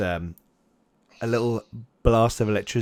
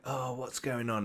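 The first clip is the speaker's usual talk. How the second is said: mildly puzzled; 2 semitones higher, 12 dB quieter than usual. Retold or imitated. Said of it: "he's kind of like".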